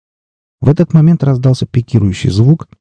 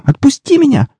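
frightened plea. A narrator's reading. Girl seized by monster.

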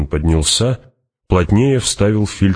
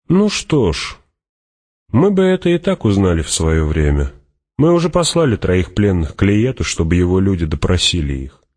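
Fremen warrior; 3 semitones higher than usual. Acted.

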